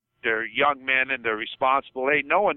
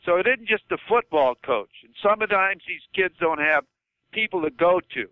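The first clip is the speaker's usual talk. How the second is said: upset, higher-pitched argument; worked up; 4 semitones higher than usual. Real, not acted. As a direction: push back insistently, getting worked up. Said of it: "I sort of got upset on that".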